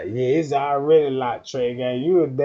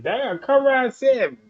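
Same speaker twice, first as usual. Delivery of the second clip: mock flirty woman; 8 semitones higher, 3 dB louder than usual. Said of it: "she set a date like".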